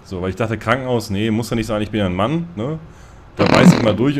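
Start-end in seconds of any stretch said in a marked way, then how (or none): 1.8-2.5 ironic stress on Mann. Retold or imitated. Ich bin ja ein Mann with ironic stress on Mann. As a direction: lean on Mann mockingly. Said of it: "Die Betonung da beim Mann".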